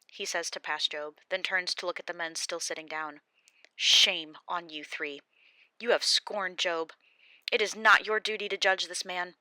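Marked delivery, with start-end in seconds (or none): 3.7-9.4 stern Elihu. Acted. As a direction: rebuke the three men sternly. Elihu scolds the three men.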